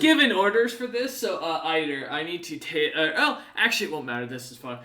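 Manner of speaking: a hint of Snowbeard catching himself; lightly voiced flustered demon. Demon almost reveals his orders to Eider, lightly voiced.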